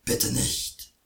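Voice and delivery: very low, begging troll; troll begs the boy not to take his well, very low; pleading troll. A narrator's reading. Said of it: "flehte ihn der Troll an".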